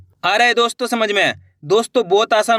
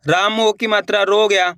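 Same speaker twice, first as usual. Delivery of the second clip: ordinary talk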